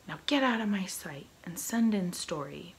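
loud, irritated pirate captain's order; angry dismissal. Acted. Pirate captain sending his first mate out, angrily loud. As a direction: bark the order to be rid of him.

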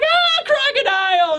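put-on high, slow, shouted fan-girl cheer. Crew members greeting Crocodile, shrill adoring shout. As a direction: squeal his name like an adoring fan. Fans cheer new executive.

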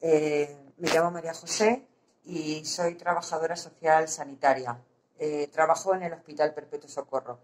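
muffled behind a mask; through a face mask. Real, not acted. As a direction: speak through a surgical mask. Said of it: "me canso de hablar con la mascarilla".

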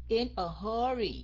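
"hurry" with its first vowel held long; drawn-out vowel. Shown as a demonstration. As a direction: stretch the vowel before the R in "hurry". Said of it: "Cái âm O đó phải kéo dài".

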